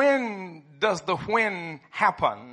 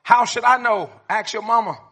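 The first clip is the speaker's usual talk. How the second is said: dismissive dad voice; 3 semitones higher, 7 dB louder than usual. Retold or imitated. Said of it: "How about this one?".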